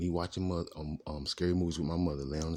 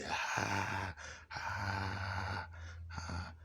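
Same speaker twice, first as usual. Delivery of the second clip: long, stretched-out higher "haaa"; imitated laughter; 4 semitones higher, 5 dB quieter, much slower than usual. Recalling them laughing as he ran in, drawn-out mock laugh. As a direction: mimic laughter as soft, held syllables, fading away. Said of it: "They laughing".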